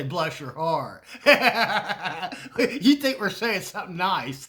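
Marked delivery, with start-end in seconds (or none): 0.0-1.0 slow, syrupy Southern "Bless your heart"; sweetly sarcastic. Retold or imitated. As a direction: drawl it out, sugar on top, knife beneath. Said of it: "it's kinda like when we say".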